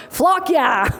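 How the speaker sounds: high, punchy team holler; mock yell. Speaker acting out the team's outburst, high mock yell. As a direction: yell it out like a cheer. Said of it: "wanted to yell things out".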